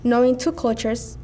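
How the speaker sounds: ordinary talk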